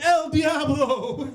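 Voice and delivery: put-on high, drawn-out frightened cry with Spanish accent; mock-terrified Spanish outcry; mock scared. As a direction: wail it in hammed-up fear. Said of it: "The Spanish students got scared".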